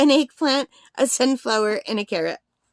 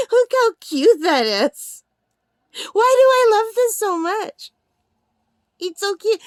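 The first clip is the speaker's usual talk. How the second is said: laughing; 9 semitones higher, 5 dB louder than usual. Real, not acted. Overtired giggle fit over toy.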